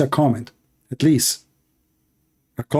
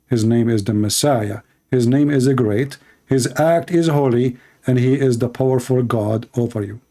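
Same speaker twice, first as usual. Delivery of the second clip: strained, voice giving out; losing voice. Real, not acted. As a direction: preach with a failing voice. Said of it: "I'm losing my voice".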